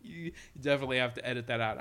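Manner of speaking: a bit tipsy, rushed. Real, not acted. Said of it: "I'm kinda drunk".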